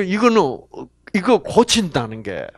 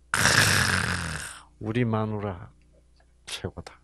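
contented husband; 8 semitones lower, 9 dB quieter than usual. Retold or imitated. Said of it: "이런 마음이 들어".

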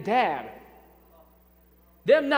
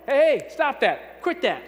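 mock scold; 5 semitones higher, 5 dB louder than usual. Parent scolding child.

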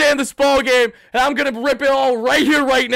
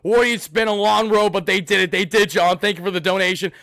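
ordinary talk, nothing marked

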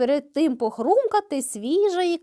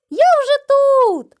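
very high, slow, louder taunt; gloating call; 10 semitones higher, 5 dB louder, slower than usual. A narrator's reading. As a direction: sing out smugly from afar. Voice heard from below.

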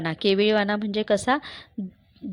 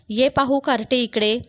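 louder, higher stern call; stern summons; 4 semitones higher, 4 dB louder than usual. Acted. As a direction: order the girl over, sternly. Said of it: "तिला सांगितलं".

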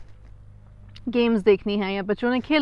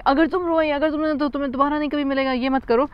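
mock threat, pitched higher; a parent half-scolding a child with a threat; threatening parent; 5 semitones higher than usual. Parent threatening a crying child, higher mock scold. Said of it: "beyond threats".

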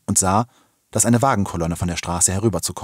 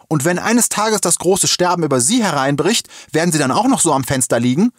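raised, high-pitched indignant call; 9 semitones higher, 4 dB louder than usual. A narrator's reading. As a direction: call it across to someone at a window. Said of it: "hatte Jana Berthas Mutter ihr zugerufen".

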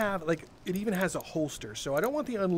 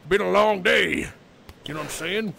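weary smoker voice; 6 dB louder than usual. Pretend. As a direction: sigh it out like a worn-out man. Voicing NPC smoking a cigar.

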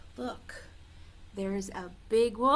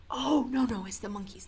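normal talking voice

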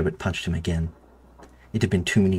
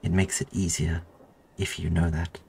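kind. Acted. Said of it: "Sherbet smiled kindly".

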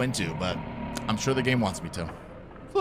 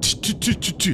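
cartoon stutter; 4 semitones higher than usual. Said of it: "like a cartoon character".

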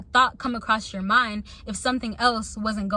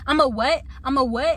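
louder, indignant repeated question; retold confrontation, raised and indignant; heated challenge; 3 semitones higher, 3 dB louder than usual. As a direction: demand an answer, heated. Confronting the girl outside.

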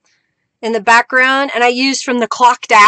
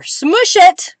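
high-pitched playful outburst; playful exclamation; 8 semitones higher, 4 dB louder than usual. Real, not acted. Playful exclamation while pressing ink.

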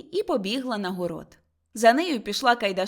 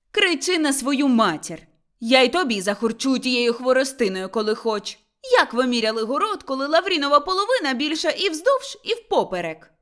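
raised-voice, quarrelsome challenge; angry retort; 3 semitones higher, 5 dB louder than usual. Acted. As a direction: fire back at your brother-in-law. Motria snaps back in quarrel. (сварлива відповідь)

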